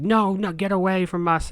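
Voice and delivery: a mild mock shriek of "get away"; mock yell. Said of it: "yelling at me".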